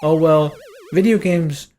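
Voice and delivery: high, bright talk show host voice; cheesy TV host. Retold or imitated. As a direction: gush like a daytime TV host. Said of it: "the host is all like".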